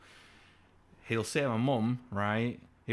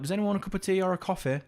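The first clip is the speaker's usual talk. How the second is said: dad offering tea; 9 semitones higher, 4 dB louder, faster than usual. Retold or imitated. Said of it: "he'll be like".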